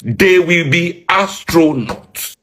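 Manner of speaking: "They will be astronauts" stretched slow, every word dragged out; slow it down to land the joke; drawn-out repeat. Shown as a demonstration. Mocking the training budget, said slow and drawn out. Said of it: "repeated slower for emphasis".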